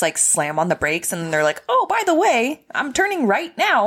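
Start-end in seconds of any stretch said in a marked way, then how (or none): 1.7-3.9 mocking sarcastic. Mocking late-blinker drivers.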